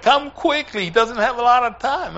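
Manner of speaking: retelling an urgent call to come quickly; urgent summons. Retold or imitated. Retold urgent summons at hospital.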